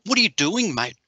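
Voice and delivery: a woken stranger snapping at you; woken-up outburst. Retold or imitated. Woken neighbour snaps at him.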